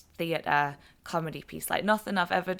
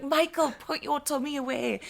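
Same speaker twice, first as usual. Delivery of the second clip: mock scolding call; 8 semitones higher than usual. Calling to partner across supermarket.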